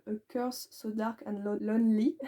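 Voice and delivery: put-on English title said with a French accent, tripping on Lonely. Booktuber apologising for her accent on an English title, in a French accent. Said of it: "Mon accent".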